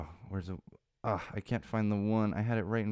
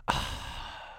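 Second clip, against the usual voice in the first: petulant sigh; 6 dB quieter than usual. Retold or imitated. Reacting to being asked.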